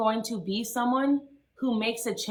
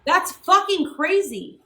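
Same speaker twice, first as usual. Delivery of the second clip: angry outburst; 4 semitones higher than usual. Real, not acted. Angry rant about drama.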